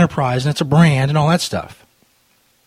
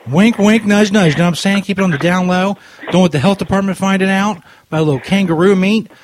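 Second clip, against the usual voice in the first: higher, louder sly nudging; mock conspiratorial; 4 semitones higher, 3 dB louder than usual. Prank caller winking at the drive-thru clerk, hammed-up sly. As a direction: sell it like a shady back-room deal.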